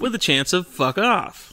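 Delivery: deadpan forecast punchline; weather forecaster voice. Acted. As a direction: finish like a weather report. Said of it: "And the weather today".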